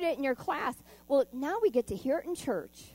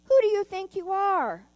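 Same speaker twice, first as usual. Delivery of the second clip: higher, louder haughty outburst; indignant cry; 8 semitones higher, 8 dB louder than usual. Acted. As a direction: snap at him, offended and proud. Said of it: "cried the rainbow fish".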